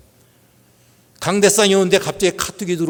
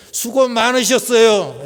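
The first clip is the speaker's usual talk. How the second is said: higher, slow, hearty greeting; say it with strength; 4 semitones higher, 3 dB louder, slower than usual. Shown as a demonstration. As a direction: greet your neighbour with real energy. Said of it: "좀 이렇게 힘있게".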